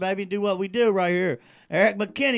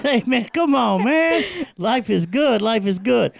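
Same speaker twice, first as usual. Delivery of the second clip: laughing; 4 semitones higher, 4 dB louder than usual. Real, not acted. Laughing hype.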